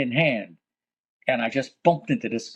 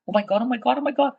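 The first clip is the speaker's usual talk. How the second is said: retold panic; 10 semitones higher, much faster than usual. Building sways, terror.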